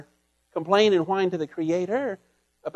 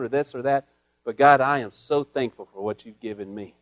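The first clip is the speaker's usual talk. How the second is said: humble prayer; 3 semitones lower than usual. Shown as a demonstration. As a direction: pray it gently, with humility. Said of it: "With humility".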